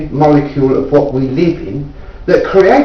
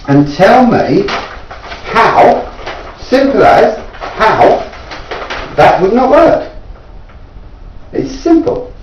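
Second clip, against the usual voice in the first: higher, pressing plea to anyone listening; exasperated appeal; 6 semitones higher than usual. Real, not acted. Inventor challenging viewers to disprove his device, exasperated and higher. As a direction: throw the challenge out to the world, pitch raised.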